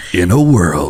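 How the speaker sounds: loud, epic movie-trailer announcer voice. After being told they have a great trailer voice, doing a movie trailer voice. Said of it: "I am the trailer guy".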